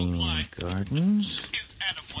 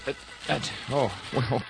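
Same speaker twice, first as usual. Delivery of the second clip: high, loud delight; overwhelmed with pleasure; ecstatic; 7 semitones higher, 3 dB louder than usual. Acted. Ecstatic at the food.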